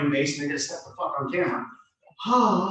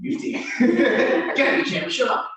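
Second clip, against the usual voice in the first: teasing laugh; 9 semitones higher, 6 dB louder, slower than usual. Real, not acted. Teasing student who keeps talking.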